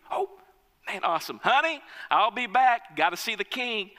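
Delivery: happy rush out the door; excited servant. Acted. Servant tells wife he's off to the king, eager. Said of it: "he's excited and he's overjoyed".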